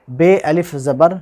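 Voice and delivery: बे अलिफ ज़बर said slowly with बे as "bay"; spelling with be. Shown as a demonstration. Teacher spelling बे अलिफ ज़बर slowly for students. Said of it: "बे मजहूल आवाज़ है".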